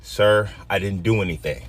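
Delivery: steady, careful and polite; calm and controlled. Retold or imitated. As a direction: hold the anger back and keep it level. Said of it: "watch my breath and say".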